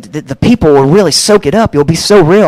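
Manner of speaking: high, loud hyped-up reassurance; gushing encouragement. Retold or imitated. Friend urging him to share, gushing. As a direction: gush it like an overkeen supporter. Retold Ricky keeps gushing.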